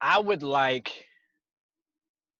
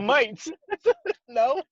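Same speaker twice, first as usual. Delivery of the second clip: high mock British, breaking into laughter; British accent; 12 semitones higher than usual. Shown as a demonstration. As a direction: toss it out in a jokey British accent. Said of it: "My British accent is okay".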